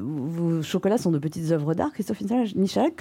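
talking through a mouthful of chocolate; words muffled by chocolate; mouth full. Real, not acted. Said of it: "crache le chocolat que t'as dans la bouche".

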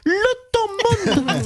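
drawn-out punchline. Pretend. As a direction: drag the words out slowly. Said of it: "Marine Le Pen, bonjour".

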